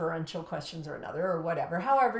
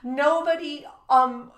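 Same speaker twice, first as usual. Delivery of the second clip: amazed, emphatic; 4 semitones higher, 7 dB louder than usual. Retold or imitated. Amazed list of good behaviour.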